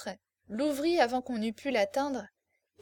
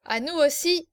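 louder, higher mocking cry; shouted toast; 4 semitones higher, 5 dB louder than usual. Marquis toasting over the girl's head, shouting. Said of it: "cria-t-il".

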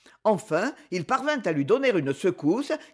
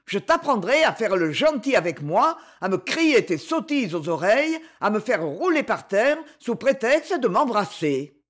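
scolding; 2 semitones higher than usual. Acted. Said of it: "Sa colère contre Torchonnet".

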